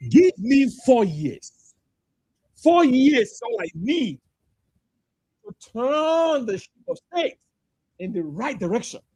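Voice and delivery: slow, drawn-out grand promise; mocking a visionary. Mocking the candidate to the space, slow and grand. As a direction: stretch each word like a campaign speech. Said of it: "He's saying".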